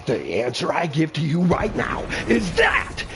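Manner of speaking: loud, very high ecstatic yelling; hyped shouting. Real, not acted. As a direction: shout it to the rooftops.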